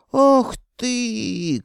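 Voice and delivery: very high, loud outraged gasp; choking with rage. Acted. Insulted wizard choking with rage, shrill outburst. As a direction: sputter in fury. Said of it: "поперхнулся от ярости".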